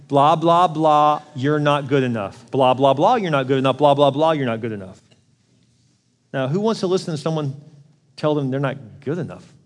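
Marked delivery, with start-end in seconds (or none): 0.1-5.0 droning nag. Retold or imitated. What nagged kids hear, droning. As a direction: mimic noise they tune out. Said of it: "They're hearing".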